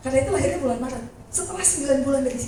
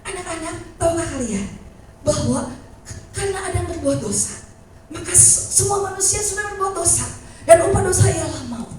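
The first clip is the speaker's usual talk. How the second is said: put-on preacher to children; 5 semitones higher, 3 dB louder than usual. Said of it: "pengkhotbahnya bilang".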